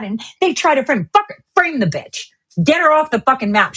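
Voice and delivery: normal talking voice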